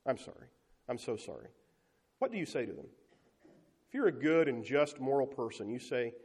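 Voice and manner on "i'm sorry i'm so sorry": mock apology. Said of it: "come up to you every day and say".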